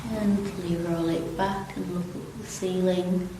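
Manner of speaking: calm, unhurried stretch instructor; easy, even yoga-class delivery with long pauses; guided relaxation. Real, not acted. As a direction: guide them gently through it, pausing between phrases. Leads gentle seated stretches.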